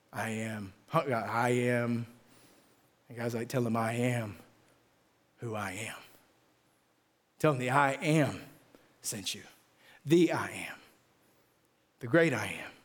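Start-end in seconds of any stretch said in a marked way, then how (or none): 0.1-2.1 tentative completion. Acted. Moses trying to finish God's sentence. 3.5-12.7 low, spaced-out divine declaration; God answering, low and deliberate; solemn voice of God. Acted. God answers Moses with his name.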